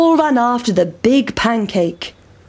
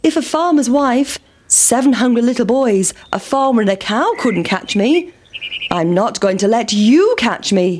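pancake boasting; 3 semitones higher than usual. Acted. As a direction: gloat as you roll away. Pancake character voice.

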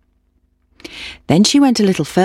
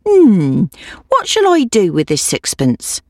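put-on old woman voice; 4 semitones higher than usual. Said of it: "she said".

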